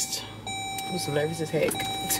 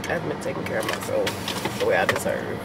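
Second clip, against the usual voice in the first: close to tears; 3 semitones lower, 4 dB quieter than usual. Real, not acted. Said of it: "I feel like I wanna cry".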